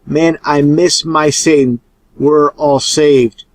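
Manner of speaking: slow, drawn-out echo of reversed audio; played backwards. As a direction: imitate the backmasked words slowly. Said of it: "but you could definitely hear".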